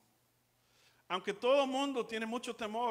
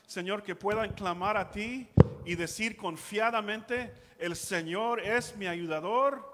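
fervent pastor praying over listeners, building over music; earnest prayer. Acted. Pastor praying for viewers to lose their fear, fervent prayer. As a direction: pray it with rising conviction.

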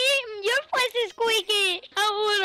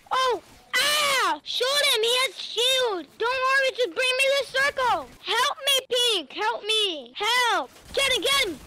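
higher urgent fight calls; excited callouts; 4 semitones higher than usual. Real, not acted. Kid calls for help during the Fortnite fight, excited. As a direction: shout orders as the fight rages.

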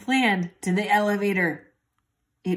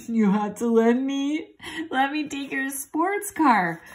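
higher, slow little mouse; 7 semitones higher, 3 dB louder than usual. Acted. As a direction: plead like an eager mouse. Ralph's request, put-on voice.

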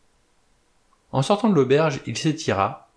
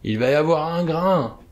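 put-on higher, whining old seaman; plaintive old sailor; 6 semitones higher than usual. A narrator's reading. Old sailor frets about a storm, plaintive. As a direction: complain it like a worried old sailor. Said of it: "d'une voix plaintive".

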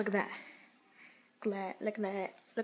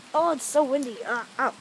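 high, loud over the wind; shouting against strong wind; 5 semitones higher, 10 dB louder than usual. Real, not acted. Wind hits outside.

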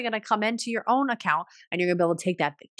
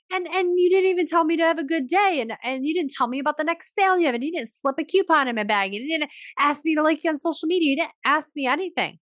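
fed-up customer rant; 9 semitones higher than usual. Retold or imitated. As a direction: vent like a disappointed shopper, voice shooting up. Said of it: "And you're like".

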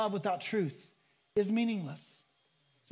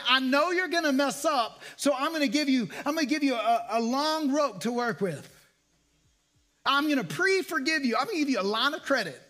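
eager; 4 semitones higher, 3 dB louder than usual. Acted. Pastor voicing forgiving attitude.

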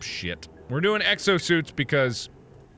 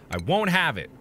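a pretend stern captain whipping the crew into shape; mock pep talk; 4 semitones higher, 6 dB louder than usual. Mock rallying speech to team.

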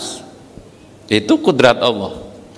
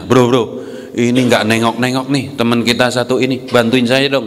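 devil calling a friend; 3 semitones lower than usual. Acted. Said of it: "manggil temennya".

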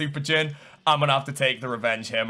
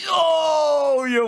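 long, high, loud Oh; real gamer's yell; excited shout; 12 semitones higher, 5 dB louder than usual. Real, not acted. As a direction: holler a drawn-out Oh in amazement. Excited reaction to loot in game.

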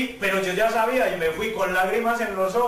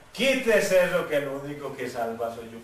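low, final order; divine command; 5 semitones lower than usual. Retold or imitated. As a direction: cut off the excuses in a lower pitch. Dios corta la excusa. (orden divina grave y tajante)

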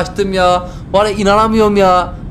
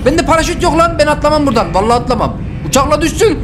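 scared; 8 semitones higher than usual. Real, not acted. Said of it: "Korkudan atlayamıyorum".

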